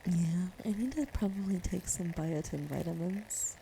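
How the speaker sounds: breathy ASMR murmur; ASMR whisper. Real, not acted. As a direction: whisper it close to the mic.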